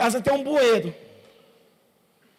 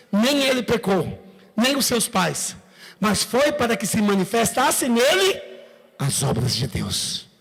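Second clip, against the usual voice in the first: calm answer of Jesus; slower than usual. Retold or imitated. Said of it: "Respondeu Jesus".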